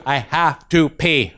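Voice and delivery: put-on very slow kid voice; slow little boy. Little boy repeating to the teacher, slow and deliberate. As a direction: drag each word out. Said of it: "He goes".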